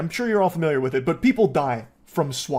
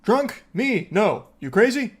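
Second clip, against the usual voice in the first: mock drunk sobriety act; 3 semitones higher than usual. Mocking the drunk caller's indignant denial. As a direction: imitate her playing it sober. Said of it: "putting on a strong show of sobriety".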